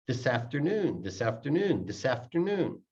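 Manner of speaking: "This afternoon" run together as one word; no stop inside "This afternoon"; linked words. Shown as a demonstration. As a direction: slide the s of "This" into "afternoon". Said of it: "so it sounds like one word".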